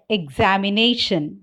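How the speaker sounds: "examination" with main stress on NA, lighter on XA; two stresses in "examination", the stronger on the fourth syllable; primary and secondary stress. Shown as a demonstration. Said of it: "with both primary and secondary stress".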